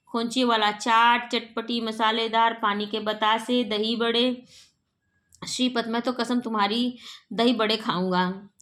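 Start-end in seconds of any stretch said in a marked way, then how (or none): 0.1-4.4 a lightly voiced hawker crying his wares; street vendor's call. Vendor outside calls to the house, light hawker cry. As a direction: sing out the snacks like a street seller. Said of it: "बाहर खोंचे वाला आवाज़ देता है".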